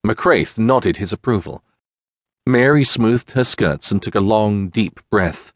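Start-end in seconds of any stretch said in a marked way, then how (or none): none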